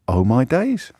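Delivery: mock disbelief, voice rising at the end; incredulous exclamation, put on; acted incredulity. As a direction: act out being lost for words in disbelief. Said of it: "spluttering with i-, incomprehension and incredulity".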